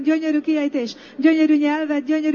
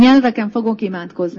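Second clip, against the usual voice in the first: declared aloud; 5 semitones lower, 6 dB louder than usual. Shown as a demonstration. Pastor leads the congregation in a louder declaration. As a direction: say "nyelveken" firmly and loudly. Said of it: "Mondjuk ki".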